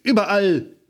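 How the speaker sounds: a mild, acted howl of pain; wailing. A narrator's reading. Lotta in the rose bush wails to Aunt Berg. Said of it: "heulte sie".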